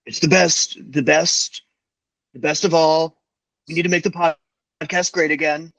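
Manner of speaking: lightly put-on New York accent; mock New York boasting in short bursts. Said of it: "year five with a Brooklyn slash New York accent".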